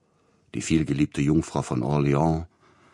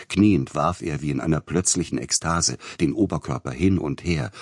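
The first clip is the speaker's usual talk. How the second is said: ordinary delivery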